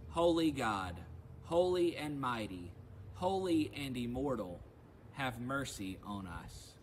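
leading everyone in saying the response together, loud and solemn; congregational response. Acted. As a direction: declare it aloud with the whole congregation. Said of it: "Together we say".

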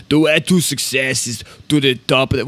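lightly voiced Austrian accent, half-hearted; a weak stab at Arnold's Austrian accent; bad Arnold impression. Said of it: "Worst Arnold impression".

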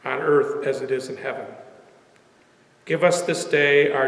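measured prayer in short, paused phrases; congregational prayer. Real, not acted.

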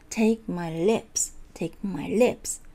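slow model, "Take" and "lips" long and strong; stress on key words. Shown as a demonstration. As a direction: lean on "Take" and "lips", keep "my" lighter. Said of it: "強い、". (「Take」と「lips」を強く長く)

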